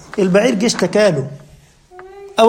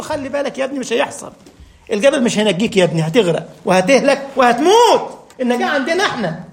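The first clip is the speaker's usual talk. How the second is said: tender fatherly plea. Retold or imitated. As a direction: gently beg the son to come aboard. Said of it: "الأب المشفق ده".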